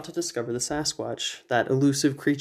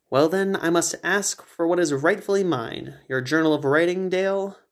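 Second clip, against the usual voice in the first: higher, haughty; Edwin's eccentric voice; 3 semitones higher than usual. Acted. Edwin refusing to leave, haughty. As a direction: dismiss it grandly.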